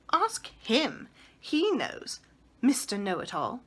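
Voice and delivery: mock him with scorn; scornful. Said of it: "nodding her head scornfully".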